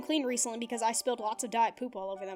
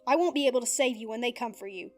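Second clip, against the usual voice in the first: loud, raised, bitter yelling; angry shouting; 3 semitones higher, 7 dB louder than usual. Acted. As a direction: throw the reality in his face. Dib shouts back at Zim.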